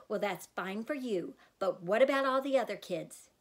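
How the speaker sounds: loud, rising accusation; angry challenge. Acted. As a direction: press her hard. Mom confronting daughter.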